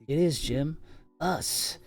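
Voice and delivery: put-on loud, high boy's shout over the storm. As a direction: yell it out to his friend.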